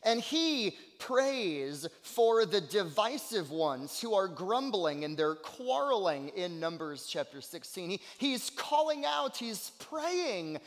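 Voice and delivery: emphatic sermon voice with stretched key words; fervent preaching. Real, not acted. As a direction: preach it with conviction. Preaches with fervour.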